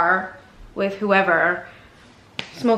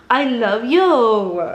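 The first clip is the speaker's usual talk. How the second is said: doting; 3 dB louder, much slower than usual. Real, not acted. Cooing to dog, repeated.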